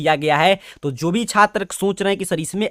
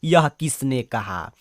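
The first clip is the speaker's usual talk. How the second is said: slow question reading; slower than usual. Shown as a demonstration. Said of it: "sixty four number प्रश्न कह रहा है".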